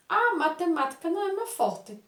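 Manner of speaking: high, bright exclamation on Ah; exclaimed excuse. Shown as a demonstration. Boy exclaiming his excuse to his mother, high and emphatic. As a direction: throw the Ah up as an exclamation. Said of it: "vem um pontinho de exclamação".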